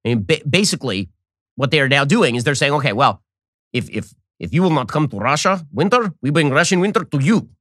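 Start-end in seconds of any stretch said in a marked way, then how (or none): 2.7-7.5 a lightly voiced smug Russia, gloating; hint of a menacing Russian bear, teasing; mock Russian threat.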